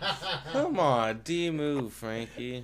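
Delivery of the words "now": yawning. Real, not acted. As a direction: end of a yawn, words stretched. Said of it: "I'm yawning right".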